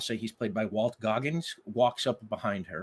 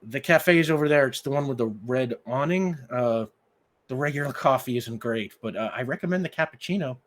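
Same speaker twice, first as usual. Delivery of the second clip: higher, louder quick directions; woman directing the stranger to the cafe; helpful young woman; 3 semitones higher, 5 dB louder, faster than usual. Acted. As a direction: point the way briskly. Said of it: "Abigail points ... and says".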